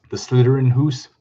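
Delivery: "Hoose" said with a long oo; Scots-style "Hoose" with an oo vowel; Scots pronunciation. Shown as a demonstration. Reading out Scots spellings.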